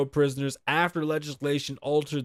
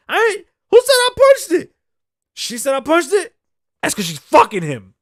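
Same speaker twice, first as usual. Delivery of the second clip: much higher, louder pleading whine; 14 semitones higher, 11 dB louder than usual. Retold or imitated. Mocking Benzino complaining to the cop, high whine. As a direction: whine it like a hurt man accusing his ex.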